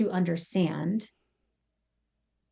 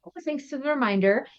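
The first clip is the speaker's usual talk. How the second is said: quick, friendly, a bit higher; light grateful reply; 5 semitones higher, faster than usual. Retold or imitated. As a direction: thank him lightly and brightly. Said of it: "Same sentence".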